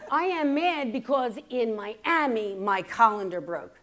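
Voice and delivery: slow, emphatic comic grievance; mock anger. Mother explaining her broken colander, slow mock anger. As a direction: lay out mom's complaint word by word, mock mad. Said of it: "she's mad".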